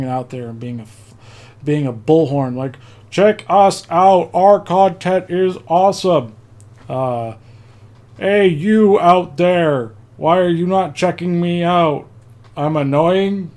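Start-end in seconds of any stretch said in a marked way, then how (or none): 3.1-6.3 slow, loud robotic announcer; bullhorn voice. Pretend. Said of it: "That's my bullhorn voice". 8.2-13.5 slow, loud robotic announcer; bullhorn voice. Pretend. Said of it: "That's my bullhorn voice".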